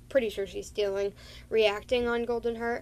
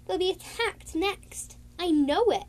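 lightly voiced anxious mother, higher; worried mother cat; 7 semitones higher, 3 dB louder than usual. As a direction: fret over her kids. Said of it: "Dovestar said".

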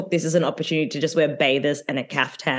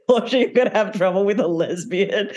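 laughing imitation; 3 semitones higher than usual. Mimicking Pepsi's reading to Portia.

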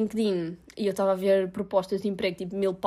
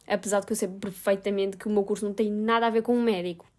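whispered aside. Real, not acted. To viewers, admitting her degree doesn't fit: whispered aside. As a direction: whisper it as a sheepish side confession.

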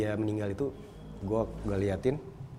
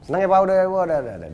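higher, much louder happy cheer; retold excitement; 8 semitones higher, 11 dB louder, faster than usual. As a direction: burst out loud and high, then come back down. Excited reaction retold in story.

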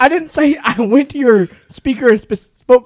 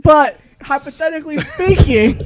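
laughing; 5 semitones higher than usual. Real, not acted. Coy admission while laughing.

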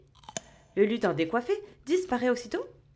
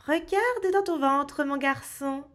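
higher little elf voice; christmas elf; 4 semitones higher than usual. Acted. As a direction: speak as the tiny teasing elf. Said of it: "dit le lutin". (voix de petit lutin)

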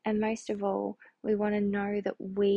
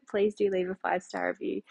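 normal talking voice

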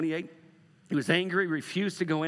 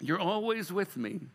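tender father; slower than usual. Pretend. Father reassuring his older son, slow and tender. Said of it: "can you imagine Jesus just getting into going".

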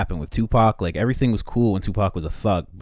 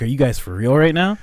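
outraged imagined MLK; 7 semitones higher, 8 dB louder than usual. Retold or imitated.

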